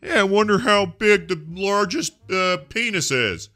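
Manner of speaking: high, drawn-out cartoonish Irish accent; mock Irish-British accent. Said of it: "the Irish accent? The British accent?".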